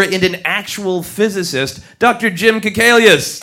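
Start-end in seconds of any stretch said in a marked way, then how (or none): 2.0-3.4 loud, raised stage introduction; big, high-energy guest announcement; announcing a guest. Real, not acted. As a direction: call out the name to bring on applause.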